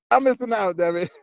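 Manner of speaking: high-pitched playful whine through laughter; joking mock complaint. Host kidding about rappers he missed, joking mock complaint. Joking after "I'm just playing.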